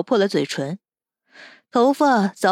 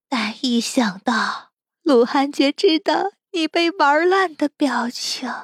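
scoff, then slow, higher-pitched relish; crazed gloating; 6 semitones higher, slower than usual. Acted. Captor gloats over revenge on the captive, slowly, crazed. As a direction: draw out each phrase, building towards mania. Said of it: "高渊已陷入疯狂".

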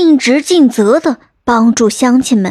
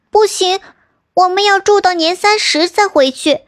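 put-on higher, insistent young daughter; young princess; 7 semitones higher than usual. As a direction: refuse the father firmly, pitched high. Princess refuses her father. (公主拒绝父皇，高声坚持)

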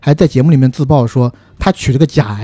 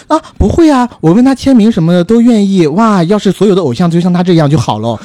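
gushing fan voice; 4 semitones higher than usual. Retold or imitated. Gushing fake fan reply.

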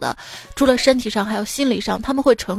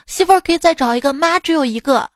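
higher, emphatic assurance; firmly certain; 5 semitones higher than usual. Retold or imitated. Son assuring his mother, emphatic certainty. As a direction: say it like there's no question. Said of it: "我肯定的说".

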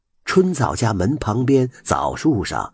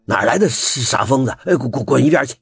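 yelling; 6 semitones higher, 3 dB louder, faster than usual. A narrator's reading. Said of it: "老憨吼了起来".

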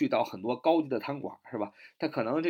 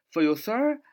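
whispered; 6 semitones higher, 3 dB louder than usual. Shown as a demonstration. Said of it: "whispered drill take".

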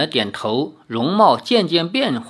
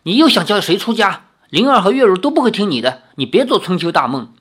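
生气; 3 semitones higher, 3 dB louder, faster than usual. Acted. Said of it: "李逍遥听了更气".

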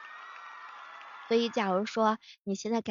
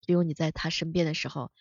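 doctor voice; 6 semitones lower than usual. Acted. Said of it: "医生会神补刀来上一句".

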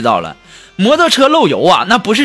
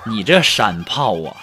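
laughing; 8 semitones lower, 4 dB quieter than usual. Acted. Punchline, host laughing.

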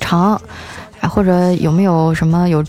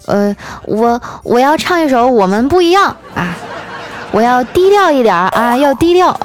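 lightly acted wife, pitched up toward the end; a hesitant start, then a higher, playful announcement; imitated wife; 4 semitones higher than usual. Wife stands up at a family party to sing, playful mock announcement. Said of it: "我媳妇儿站出来说".

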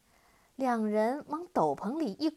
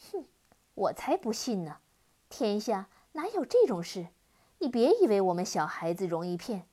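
scoffing taunt; 4 dB louder, faster than usual. Acted. Girl taunts the demon.

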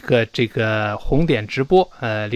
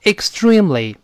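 read aloud; 5 semitones higher than usual. Shown as a demonstration. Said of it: "那大声来一遍".

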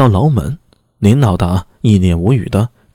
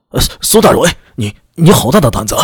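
flustered shriek; 2 semitones higher than usual. Acted. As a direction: splutter it out in fake outrage. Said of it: "扯着嗓子气急败坏地尖叫道". (气急败坏地尖叫)

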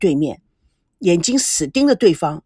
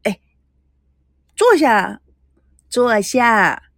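coaxing; slower than usual. Acted. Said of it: "赶紧讨好".

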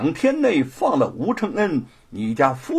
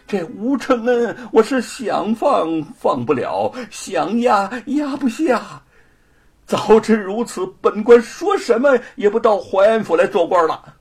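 愁苦; 3 semitones higher, 3 dB louder than usual. Acted. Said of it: "范谷愁苦地摆了摆手说".

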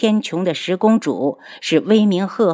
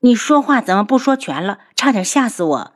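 higher, mock-scolding; playful reproach; 4 semitones higher than usual. Heroine reproaches Mantianyao for half-telling news, higher and scolding. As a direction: scold him half in jest. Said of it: "嗔怪地白了他一眼".

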